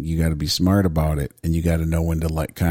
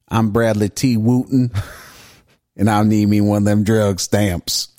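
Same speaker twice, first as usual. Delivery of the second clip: a hammed-up Southern twang, playing the dealer; Southern accent. Podcast host voicing the dealer in a mock Southern accent. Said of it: "doing, like, a Southern accent".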